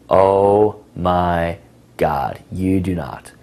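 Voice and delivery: slow, drawn-out sassy disbelief. Shown as a demonstration. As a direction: tease her with mock outrage. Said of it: "you're being sassy".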